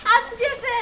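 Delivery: thin, moaning cry of pain; pained wail. Acted. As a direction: moan as if the arm is broken. Wails that her arm is gone. (ব্যথায় কাতর বিলাপ)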